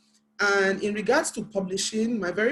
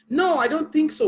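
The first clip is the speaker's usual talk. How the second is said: mock dismissive retort; 8 semitones higher, 5 dB louder than usual. Friend's dismissive retort, retold.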